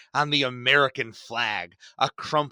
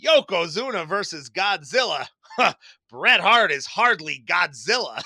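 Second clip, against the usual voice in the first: mocking Vince; 2 semitones higher, 5 dB louder than usual. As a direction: dismiss "Yokozuna versus Godzilla" with a scoff, slowing down on "Bret Hart is hardly Godzilla". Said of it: "Vince ... goes".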